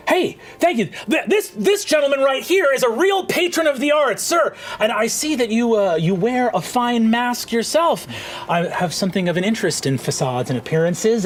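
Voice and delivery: high, brisk carnival barker pitch; gnome showman. Acted. Gnome illusionist hawking to the market crowd, high showman voice. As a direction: hype the crowd like a cocky street magician.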